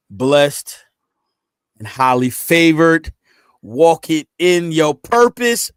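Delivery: punchy, drawn-out preacher-like charge; rousing exhortation. Real, not acted. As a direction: proclaim each phrase like a blessing. Exhorting listeners in a closing blessing.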